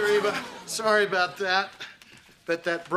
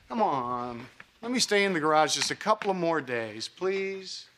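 pleading; 3 semitones lower than usual. Acted. Pleading to stay in garage.

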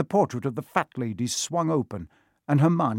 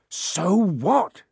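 higher, louder defiant shout; 7 semitones higher, 4 dB louder than usual. A narrator's reading. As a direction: throw it back at them loudly. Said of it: "Harry shouted".

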